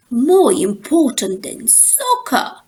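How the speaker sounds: slow, stunned question; can't believe it, drawn out; a boy shocked at the idea; shocked gasp. Acted. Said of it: "gasped Brother, shocked".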